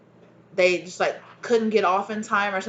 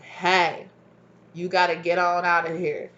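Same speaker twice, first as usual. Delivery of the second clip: drawled southern twang. Retold or imitated. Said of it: "I don't know why I keep saying it like that".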